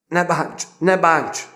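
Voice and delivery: high, loud cry to be spared; shouted plea. A narrator's reading. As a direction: yell in panic as blows land. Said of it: "kezdett kiabálni M".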